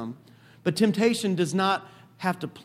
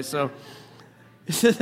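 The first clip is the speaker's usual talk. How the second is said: normal talking voice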